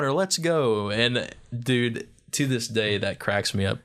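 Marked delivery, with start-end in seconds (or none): 0.1-0.9 exclamation inflection. Shown as a demonstration. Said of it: "it's like inflection".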